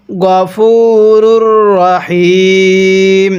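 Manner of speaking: গফুরুর Rahim with a short গ, not গাফু; short gha. Shown as a demonstration. Teacher demonstrates the correct গফুরুর. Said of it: "এখানে গাফু পড়ব না".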